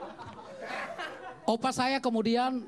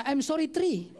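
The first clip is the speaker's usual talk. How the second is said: says three with a laugh, higher; proud miscount through a laugh; 6 semitones higher, slower than usual. Retold or imitated. Opa miscounting apologies. (opa bangga salah hitung sambil tertawa)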